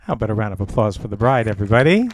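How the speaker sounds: loud, rousing call for applause; calling out to crowd. Real, not acted. Officiant calls the guests to applaud the bride, loud and rousing. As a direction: shout it out to the whole room to get them clapping.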